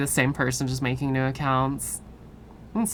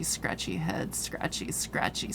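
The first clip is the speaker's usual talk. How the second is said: whispered; 9 semitones lower, 11 dB quieter than usual. Real, not acted. Scratching itchy head.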